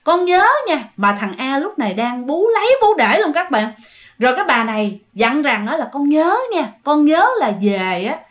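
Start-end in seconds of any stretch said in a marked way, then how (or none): 0.0-0.8 lightly voiced tender ghost mother; gentle ghost mother. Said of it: "nói nhẹ nhàng". 5.9-8.2 lightly voiced tender ghost mother; gentle ghost mother. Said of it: "nói nhẹ nhàng".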